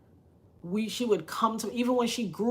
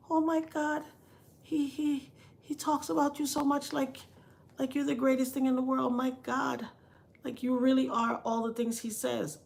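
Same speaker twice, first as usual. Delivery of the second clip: higher, gushing mock amazement; imitated awe; 5 semitones higher than usual. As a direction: gush like an awestruck admirer, voice lifted. Awed woman gushing in a story.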